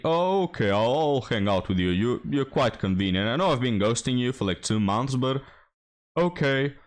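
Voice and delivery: a lightly voiced mocking take on her, airy and reluctant; lightly mimicking a woman ghosting a man. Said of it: "she's making the incredible effort".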